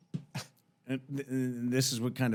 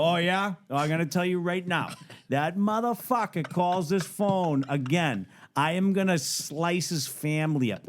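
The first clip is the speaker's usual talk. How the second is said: mock threat; 4 semitones higher than usual. Threatening to the detective's face.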